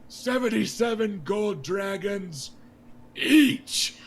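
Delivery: high, loud, with a huge shout on each; defiant shout. Acted. King Robert glaring at Jon Arryn, shouting defiantly. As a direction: hurl it at the Hand to spite him. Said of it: "He goes".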